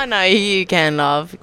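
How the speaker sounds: mock British, ending on a term of endearment; British accent. Shown as a demonstration. Egging a friend on to do accents, mock British. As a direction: put on a chummy British voice.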